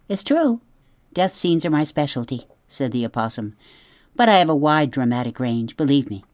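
a hint of a proud, theatrical opossum; lightly voiced opossum. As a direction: play the show-off opossum, lightly. Opossum boasting.

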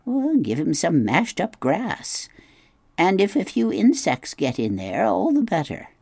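lightly voiced brisk goose, matter-of-fact; a hint of a know-it-all goose; old goose giving advice. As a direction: rattle off motherhood tips like a busy goose. Goose instructs robot.

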